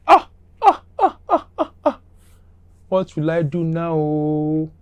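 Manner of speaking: high, hammed-up wail of despair; mock wailing. The officer wails on learning whose car it is, hammed-up high cry. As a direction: wail like the sky just fell, then slow dread.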